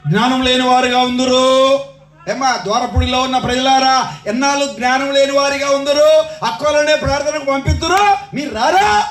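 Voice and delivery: sustained sermon call; insistent preaching. Real, not acted. Preacher asks villagers how long they will lack wisdom, insistent preaching. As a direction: challenge the congregation, ends held out.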